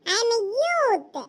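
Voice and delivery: very slow, drawn-out boast; mock-grand self-announcement; proud declaration. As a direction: stretch each word out like a proud claim. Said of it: "பாரு".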